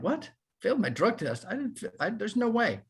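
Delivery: retold disbelief. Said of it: "And I'm like".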